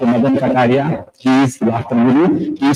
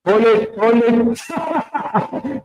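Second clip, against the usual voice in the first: holding breath cue; 9 semitones higher, much slower than usual. Shown as a demonstration. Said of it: "take a deep breath".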